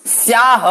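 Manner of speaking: स्याह begun directly on s, no i before it; straight s sound. Shown as a demonstration. Teacher showing students the clean s in a Hindi word. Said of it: "यहां भी सीधा स का प्रयोग हुआ है".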